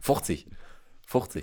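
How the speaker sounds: "Fünfzig" said as "fuchzig"; colloquial fifty. Shown as a demonstration. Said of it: "sondern fuchzehn". („Fünfzig“ als „fuchzig“)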